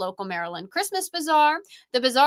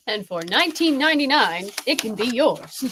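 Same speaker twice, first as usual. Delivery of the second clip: infomercial pitchman. Pretend. Mock infomercial sales pitch.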